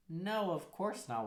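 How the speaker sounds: slow, emphatic mock reassurance; reassuring. New partner answering your doubts, reassuring.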